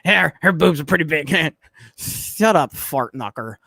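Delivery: a lightly voiced snickering Beavis. Quoting Beavis for chat, a light Beavis voice. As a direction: slip back into a hint of Beavis. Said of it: "God, I love Beavis Butthead".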